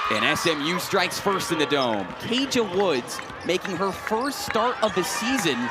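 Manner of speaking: lifted basketball call, pitch up on the scorer; live play-by-play. Real, not acted. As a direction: call the opening basket for radio. Calls the first basket.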